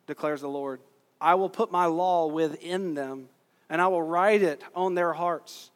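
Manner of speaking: emphatic, measured Bible reading; scripture reading. Acted. Preacher reading Jeremiah to the congregation, emphatic scripture reading. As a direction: read it out with weight on key words.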